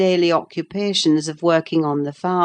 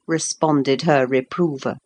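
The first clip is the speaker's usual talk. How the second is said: plain reading voice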